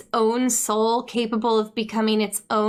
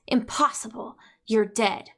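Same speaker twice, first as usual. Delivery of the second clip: whispered, lower, stunned disbelief; 3 semitones lower than usual. Acted. Ren shocked to see Snoke alive, whispering. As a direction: breathe it out, shocked. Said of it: "Ren is stunned".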